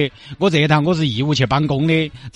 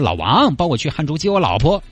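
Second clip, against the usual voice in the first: casual Sichuan-dialect phone request. Retold or imitated. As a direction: play the friend asking a favour. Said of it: "我给你表演一段，还原一下当时的情景". (四川话)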